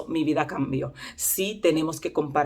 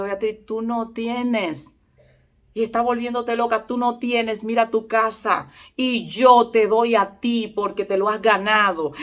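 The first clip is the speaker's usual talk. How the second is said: lightly voiced divine admonishment; 3 semitones higher than usual. God admonishes her in retelling.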